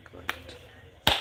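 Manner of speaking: ordinary talk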